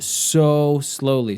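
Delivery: slow, dragged-out emphasis; drawn out. Real, not acted. Griping to co-host about pipe YouTubers, drawn out. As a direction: stretch the words out slowly. Stressing how slow they are.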